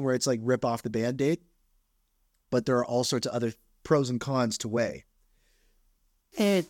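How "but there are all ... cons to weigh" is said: stuffy nose from blowing it; talking with a blocked nose. Real, not acted. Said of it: "apologies, just blowing my nose again".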